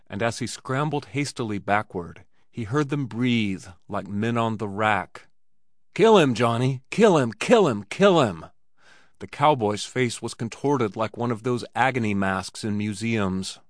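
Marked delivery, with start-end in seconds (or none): 5.9-8.5 shouted, urging a fighter on; a cowboy bellowing at a brawl to kill; frenzied yelling. Acted. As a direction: roar it from the ringside, wild with bloodlust. Cowboy screaming during the fight.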